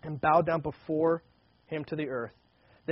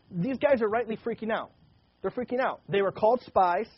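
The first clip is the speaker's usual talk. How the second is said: excited; 5 semitones higher, 4 dB louder than usual. Real, not acted. Preacher describing panicked brothers.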